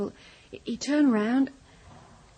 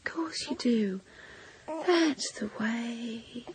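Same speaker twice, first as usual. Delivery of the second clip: soothing coaxing; slower than usual. Acted. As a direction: coax gently, drawing out the last words. Coaxing someone or something in her care.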